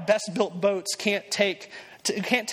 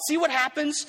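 mock know-it-all; 7 semitones higher than usual. Doubter's reaction voiced.

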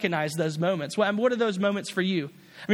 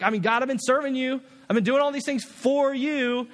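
higher, pleading, self-pitying whine; a hurt servant whining at God; whiny complaint; 4 semitones higher than usual. Retold or imitated. Elijah whines to God, higher and pleading. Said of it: "pity party with God".

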